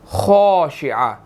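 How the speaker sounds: خاشعہ slowly, with a thick full-mouthed kha; heavy kha. Shown as a demonstration. Teacher demonstrates the heavy letter, thick kha. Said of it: "خا جو ہے وہ ہم نے اس کو موٹا ادا کرنا ہے".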